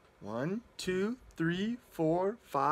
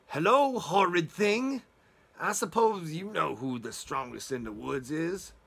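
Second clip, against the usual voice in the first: sneering wolf. Acted. Wolf sneering at the little toad, mild disdain. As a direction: look down your nose at the toad.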